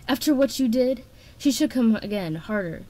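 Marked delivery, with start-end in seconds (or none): 0.1-1.0 higher, louder indignation; hissed. A narrator's reading. Queen confronts the begging traitor, hissed and incensed. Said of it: "Coral hissed".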